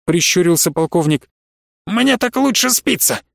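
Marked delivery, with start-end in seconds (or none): 1.9-3.2 high-pitched flippant retort; smirking. A narrator's reading. Professor brushing off the colonel's question, smirking. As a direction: toss it off with a smirk. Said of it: "усмехнулся профессор".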